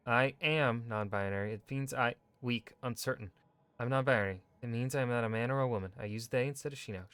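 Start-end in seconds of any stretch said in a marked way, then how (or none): 0.1-1.5 slow, hesitant declaration; unsure, asking permission. Acted. Rehearsing coming out to mother, hesitant and unsure. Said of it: "not to say it like a question or like I'm asking permission". 3.8-7.0 firm, confident statement; short and clear. Acted. Rehearsing coming out to mother, firm and clear. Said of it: "Short, clear, should work".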